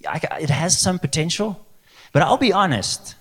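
high-pitched, hesitant would-be adviser; cheeky Peter. Acted. Peter appraising Jesus's plan, high and tactfully doubtful. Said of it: "Peter was like".

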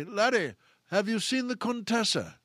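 lightly voiced English stage actor; a hint of grand theater delivery; Peter's theater voice. Old actor asking a young colleague, lightly theatrical. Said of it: "what a great theater voice he had".

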